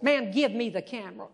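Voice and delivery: a hint of a gruff guard. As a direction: demand the camera gruffly. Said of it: "said in a gruff voice".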